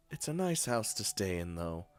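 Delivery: soft, lightly voiced character; gentle polite Lily. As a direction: chat softly and courteously on the phone.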